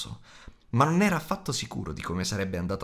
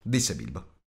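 ordinary delivery

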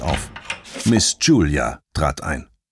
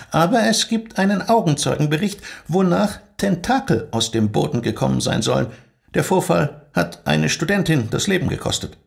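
high, cool and formal rebuke; stern school head demanding silence; strict headmistress; 9 semitones higher than usual. Acted. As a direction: put the eager trainee in her place. Headmistress briefing.

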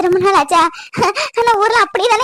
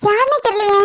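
raised, higher voice in alarm; urgent alarm; 5 semitones higher than usual. Acted. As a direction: cut the call short, alarmed at finding someone collapsed. Finds woman collapsed, cuts off call. (பதற்றத்தோடு உயர்ந்த குரல்)

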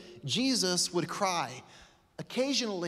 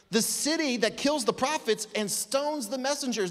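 higher, anguished cry; grieving lament; 6 semitones higher than usual. Acted. Jesus grieving over the city that rejects him, higher lament. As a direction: let the heartbreak into it. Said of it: "hear his heart".

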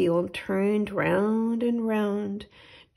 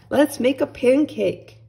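put-on eager boy; 5 semitones higher, 7 dB louder than usual. Jack eager for pancake.

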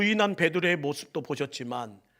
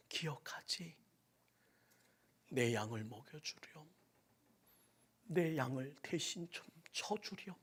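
much softer, whispered gentle plea; tender asking; 3 semitones lower, 6 dB quieter than usual. Acted. Jesus gently asking Peter, soft near-whisper. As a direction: coax him back softly.

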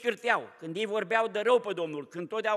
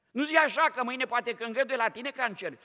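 raised, higher warning; preacher's raised warning; sharp rebuke; 3 semitones higher than usual. Real, not acted. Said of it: "preacher rebukes listener directly".

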